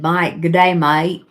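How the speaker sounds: lightly put-on Australian accent; Aussie accent. Reading Dora's comment to the viewers, light Aussie accent. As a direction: read it out with a touch of Aussie. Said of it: "You love my Aussie accent?".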